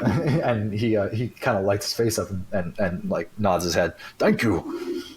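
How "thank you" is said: lightly voiced grateful beggar; a hint of a humble beggar; half-orc beggar. Half-orc beggar thanks a passerby for coins, lightly voiced. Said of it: "this, like, half-orc beggar".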